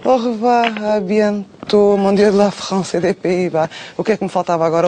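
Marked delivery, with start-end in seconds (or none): 0.0-3.7 French chef. Acted. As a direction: say goodbye like a cartoon French chef. Host mock French goodbye. (despedida em francês exagerado)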